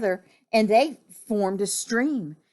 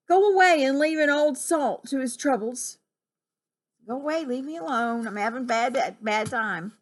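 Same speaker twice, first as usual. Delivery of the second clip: lightly voiced grumpy captain; 4 semitones higher than usual. Grumpy captain lists his troubles.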